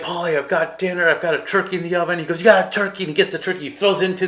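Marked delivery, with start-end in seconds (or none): 0.0-2.2 higher, louder, hurried complaint; mad protest. Retold or imitated. Adrian objecting to Paulie about her dinner, exasperated. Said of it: "she's all mad". 2.4-3.0 high, loud challenge thrown back; loud retort. Retold or imitated. Paulie snapping back at Adrian over dinner, loud and brash.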